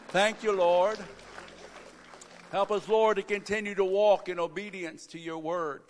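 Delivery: congregational prayer led aloud. Real, not acted. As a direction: pray earnestly over the people.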